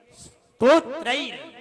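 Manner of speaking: "स्तोत्रैर" loud and slow, s held apart; long bare s, then totrair, for "स्तोत्रैर"; no vowel before "स्तोत्रैर"; correct pronunciation. Shown as a demonstration. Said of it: "इस बात का ध्यान रखिए".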